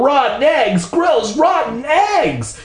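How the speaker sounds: very high, grossed-out wailing; high-pitched acted disgust, slowing at the end. A narrator's reading. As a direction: wail in revulsion, stretching the end. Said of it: "she wailed".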